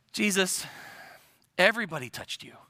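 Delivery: mildly exasperated, pausing after the name; understated eye-roll at an obvious question; eye-rolling exasperation. Retold or imitated. Peter rolling his eyes at Jesus, mildly condescending. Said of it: "like, rolling his eyes at Jesus".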